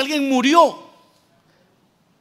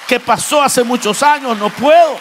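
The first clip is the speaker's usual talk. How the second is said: prayer that builds louder to a firm "no puedo"; resolute prayer; 4 dB louder than usual. Pretend. Believer vowing to the Lord to move on, building louder. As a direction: swell into a determined plea, loudest at the end.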